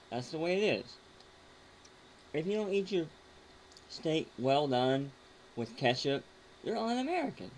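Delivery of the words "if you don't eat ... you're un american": mock indignant. Real, not acted. Mock patriotic rant.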